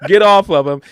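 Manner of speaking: high, loud plea to stop; mock outraged yell. Fan yells at Moxley to get off Nick, high and loud. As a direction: shout at him to get off.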